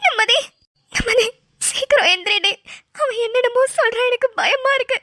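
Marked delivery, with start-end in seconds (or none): 0.0-2.5 tearful, slow, urgent calls to wake her; frightened pleading. Acted. Friend begging the fainted girl to wake, tearful. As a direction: shake her awake through tears.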